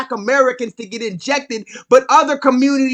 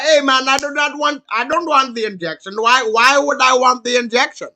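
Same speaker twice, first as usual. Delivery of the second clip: put-on Indian accent; 4 dB louder than usual. Sri Lankan man refusing the injection, in an insistent Indian accent. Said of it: "he was like".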